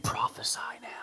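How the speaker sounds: whispered taunt; mocking whisper. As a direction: sneer it under your breath. Guards mocking the blindfolded Jesus.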